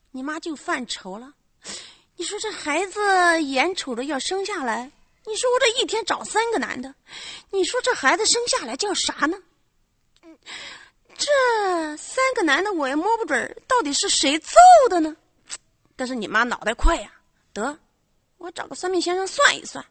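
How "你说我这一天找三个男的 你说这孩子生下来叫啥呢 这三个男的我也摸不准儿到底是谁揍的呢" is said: a hint of a fretting mother, pitched higher. The mother frets over who fathered her child, lightly voiced higher. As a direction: lightly play the flustered mother wondering aloud.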